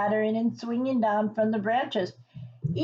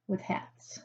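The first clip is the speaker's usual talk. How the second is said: whisper; 10 dB quieter than usual. Real, not acted. Whispering to the children while showing the picture. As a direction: lean in and whisper it.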